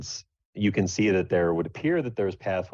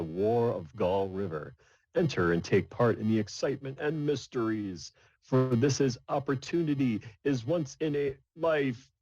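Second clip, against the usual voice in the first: grand echoing announcer voice; booming voice; 2 semitones higher than usual. Acted. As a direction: boom it out like a cave oracle. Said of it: "there's a booming voice that then speaks".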